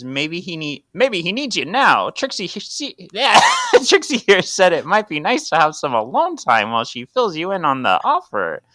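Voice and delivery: a hint of hardboiled noir; noir detective. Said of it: "sounds just like the Noir voice".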